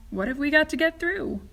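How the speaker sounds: mild mock shout. A narrator's reading. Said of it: "shouted Grandpa Joe".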